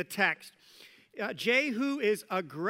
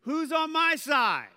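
loud, higher and slow, a changed voice; commanding call; 7 semitones higher, 5 dB louder, slower than usual. Acted. Jehu challenges the servants at the window, loud demanding call. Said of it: "And he says to them".

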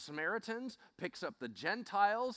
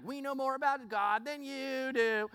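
cocky boast; 7 semitones higher than usual. Acted. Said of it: "all cocky and arrogant".

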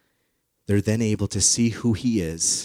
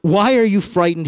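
gentle reproach; 9 semitones higher, 6 dB louder than usual. Acted. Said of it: "he asked".

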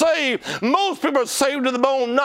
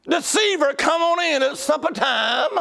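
mama calling out; 4 semitones higher than usual. Retold or imitated. Mama calls Jacob in.

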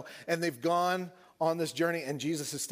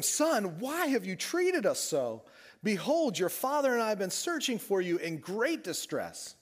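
upset Jewish mama; 7 semitones higher, 4 dB louder than usual. Retold or imitated. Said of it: "an upset Jewish mama voice".

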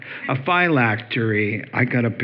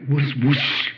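whoosh sound. Retold or imitated. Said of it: "we're like".

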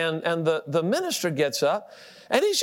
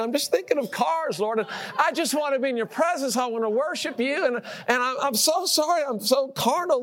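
pleading prayer; 5 semitones higher than usual. Retold or imitated. Retold repentant prayer to God.

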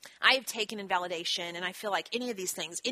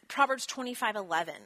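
normal talking voice

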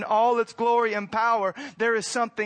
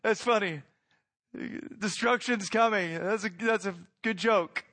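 mocking dismissal; 2 semitones higher than usual.

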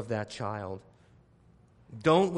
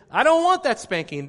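mock whiny child; 10 semitones higher, 9 dB louder than usual. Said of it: "What they're saying is".

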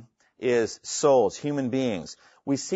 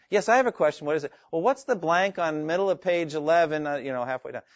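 lightly mimicked student, pitched up at first; questioner from class; 4 semitones higher than usual. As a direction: imitate an interrupting student with a question. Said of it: "somebody always says".

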